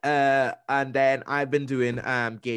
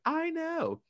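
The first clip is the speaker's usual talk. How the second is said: mock whine; 3 dB quieter than usual. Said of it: "I was like".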